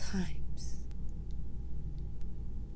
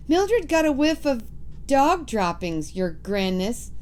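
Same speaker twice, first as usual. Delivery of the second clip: a hint of higher witch voice; 5 semitones higher than usual. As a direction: report it as a witch. Witch reports to leader.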